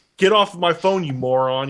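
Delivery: mock-angry shouting. Speaker recalls callers asking if they're caller nine, retelling an angry yell. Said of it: "I was always angry".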